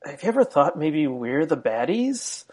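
a hesitant nerd asking a worried question; lightly voiced nerdy Nazi officer. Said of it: "in a very kinda nerdy voice".

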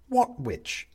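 high, puzzled question; a confused man, pitched high; baffled. Acted. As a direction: ask it in disbelief. Benedict bewildered.

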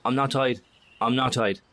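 loud, high, urgent plea; panicked protest. Acted. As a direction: blurt it out in alarm at the gun. Protesting at gunpoint.

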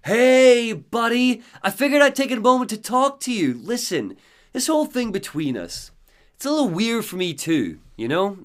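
high, loud, chummy villain voice; Mister Scratch. Acted. Scratch coaxing Alan at the party, high and loud. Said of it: "what Mister Scratch wants to say".

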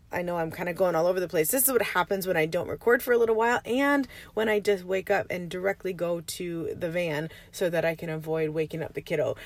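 early-morning raspy voice; just-woke-up raspy voice. Real, not acted. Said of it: "you can hear my raspy voice".

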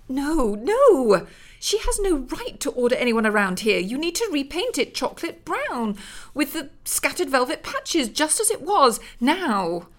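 high, loud, commanding rebuke; haughty angry orders; imperious scolding. Acted. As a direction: order him about as lady of the house. Elizabeth scolds Bengt.

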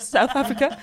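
put-on South Africa in a flat Yorkshire accent; Leeds accent. Mocking how people from Leeds say it, Yorkshire accent. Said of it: "People from Leeds".

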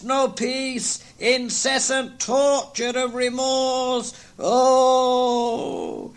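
high, hollow, mournful voices; ghost and terrified Scrooge. Acted. Marley's ghost laments his fate, high and mournful. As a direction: wail it like a lost soul.

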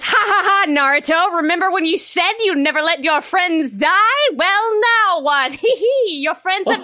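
gleeful, laughing villain taunt. Retold or imitated. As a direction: cackle out the taunt like a gloating villain. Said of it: "Obito, that fucking bitch, says".

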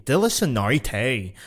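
de la sonorité ending in a heavy "-tay"; butchered de la sonorité with English vowels; mocking American mispronunciation. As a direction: mimic an American mangling de la sonorité. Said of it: "one more American say".

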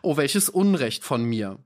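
put-on high, faltering cry of a stricken young woman; dying voice. Pale Letty exclaims to beggar Ferdy, high and faltering. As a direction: cry out as if your voice is failing. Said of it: "mit ersterbender Stimme ausrufen".

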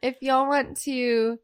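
high loud squeaky voice; squeaky cartoon voice. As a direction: squeak it out comically. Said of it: "That sounds dirty".

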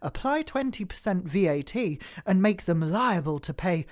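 lightly put-on upper-class reading; posh voice. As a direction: read it like a smug private-school alum. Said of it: "harnessing my inner posh person".

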